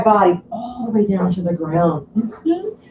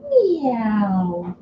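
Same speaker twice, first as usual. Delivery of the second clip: cat meow. Shown as a demonstration. Teacher showing kids the cat pose, cat-voiced meow. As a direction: Meow drawn out in a put-on cat voice. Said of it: "that is the cat".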